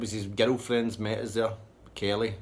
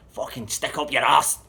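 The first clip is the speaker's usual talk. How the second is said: loud, slow, higher retold insult; acted angry outburst; 5 semitones higher, 9 dB louder than usual. Man storms off from his pals, loud angry parting shot.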